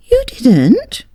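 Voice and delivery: a wife caught off guard; surprised wife. A narrator's reading.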